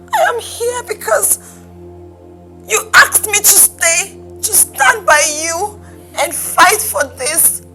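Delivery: halting, hurt pleading with pauses; wounded, swelling on key phrases; tearful reproach. Acted. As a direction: plead through tears at a lover's betrayal. Betrayed lover pleads tearfully.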